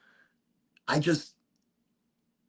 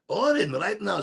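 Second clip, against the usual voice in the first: imitating mom; 5 semitones higher than usual. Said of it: "She goes".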